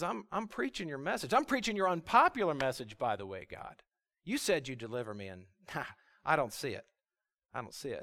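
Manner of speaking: acted frustration, sinking into soft, low muttering; frustrated. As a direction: grumble to God as the let-down prophet. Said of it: "He's frustrated".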